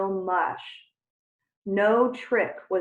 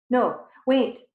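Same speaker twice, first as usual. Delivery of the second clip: loud, higher call after him; 5 semitones higher, 7 dB louder than usual. Acted. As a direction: call him back before he leaves. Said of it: "Tarantula called".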